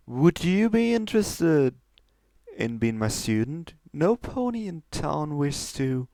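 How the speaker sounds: put-on courteous old magician, eager; lightly voiced stallion. Stallion offering his tricks to Trixie, lightly voiced.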